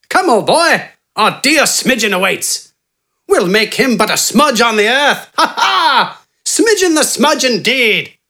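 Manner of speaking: high, genteel, self-assured bargaining voice; eccentric doctor Wither. A narrator's reading. Wither smoothly bargaining with Gafgarn for his help. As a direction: purr the offer like a smug English gentleman.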